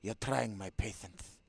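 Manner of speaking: put-on furious Castellano-accented shout; angry shout. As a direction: bark the demand, losing patience. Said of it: "give her something like a Castellano".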